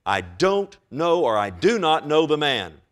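loud, forceful imitation of a denial; emphatic sworn denial. Preacher quotes Peter swearing he is no follower, loud emphatic denial. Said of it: "Peter began to curse and swear".

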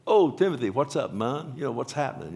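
mock breezy hey-buddy greeting; casual greeting. Shown as a demonstration. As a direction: toss it off like a casual hello. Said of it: "it's not like, like I told you earlier".

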